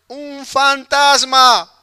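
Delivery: frightened cry. Retold or imitated. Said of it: "Dice que pegaron unos gritos".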